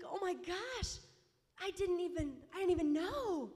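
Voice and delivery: high, loud hammed-up wail; mock bawling. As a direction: wail in comic, tearful realization. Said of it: "I just start bawling".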